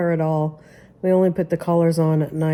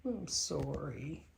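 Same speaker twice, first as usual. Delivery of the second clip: much softer, slow whispered apology; whispering to pets; 16 dB quieter, slower than usual. Real, not acted. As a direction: whisper goodnight to sleeping dogs. Whispering goodnight to dogs.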